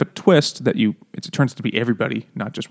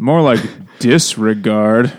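laughing punchline; 3 dB louder, slower than usual. Retold or imitated. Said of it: "He's like".

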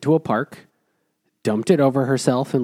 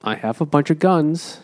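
mock Tom; 5 semitones higher than usual. Imitating Tom boasting to the frightened woman about his guns. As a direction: ham up the old guy boasting. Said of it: "And Tom is like".

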